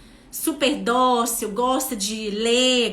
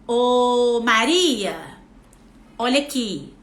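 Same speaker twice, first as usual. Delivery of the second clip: calm call; 4 dB louder, much slower than usual. Shown as a demonstration. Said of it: "Você vai lá e fala assim".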